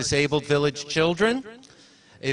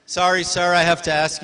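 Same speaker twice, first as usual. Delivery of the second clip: firm call; 3 semitones higher, 5 dB louder than usual. Real, not acted. Asking man to sit.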